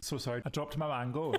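giggling apology; laughing through the words. Real, not acted.

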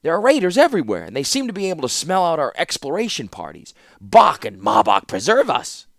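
put-on high agitated old man crying out; Rusko exclaiming. Rusko frets about raiders.

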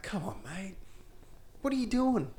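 high, rising to a laughing shout; mock Chopper. Friend mocks Chopper being stabbed, shouting high with laughter. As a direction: ham up the disbelief, cracking up. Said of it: "he's like".

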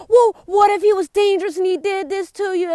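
high, hurried-on second-guessing; mock worried critic. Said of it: "they be like".

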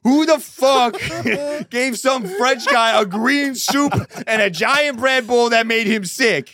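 loud, high mock yelling at the staff; hammed-up angry employee; mock store worker. Store worker yelling at staff about the French guy, mock outrage.

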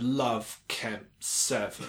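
put-on drawn-out commandant in a light German accent; slow German accent. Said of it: "talking in this German accent".

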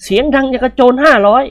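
gruff scolding. Acted. Nikorn scolding the boy, rough bandit-like voice. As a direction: tell the kid off like a bandit.

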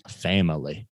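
"family" stretched into three syllables, fam-uh-lee. Retold or imitated. Naming the coach's speech to google, three-syllable "family". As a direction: imitate the coach's drawn-out "family". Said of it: "It's three syllables".

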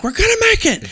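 put-on father shouting reassurance to his kids; yelling over wind. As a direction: call it up high over the storm.

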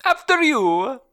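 high squeaky cartoon plumber; polite video game hero voice; Luigi voice. Luigi impression repeating.

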